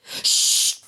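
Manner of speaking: a sharp hushed shh; whispered shush. A narrator's reading. Mother hushing her son in the tree, whispered. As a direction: hush him without a voice. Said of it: "sussurrò la mamma".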